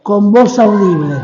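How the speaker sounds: lightly voiced pastor's proclamation; imitated pastor. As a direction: declare it with a hint of pulpit testimony. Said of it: "venía un pastor y decía". (pastor imitado, proclamando levemente)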